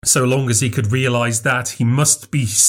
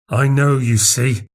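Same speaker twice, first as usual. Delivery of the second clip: enormous conceit; 3 semitones higher than usual. A narrator's reading. Little man boasting to Craven, smugly conceited. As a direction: lord your secret over him. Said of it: "in a tone of enormous conceit".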